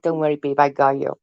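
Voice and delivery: lightly voiced protective man; a hint of a low, easy reassurance; reassuring boyfriend. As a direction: imitate him soothing his partner. Voices man reassuring his partner.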